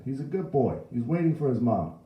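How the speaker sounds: put-on high, loud old bystander; indignant old man's voice; defending old man. A narrator's reading. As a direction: protest on the boy's behalf. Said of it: "an old man added".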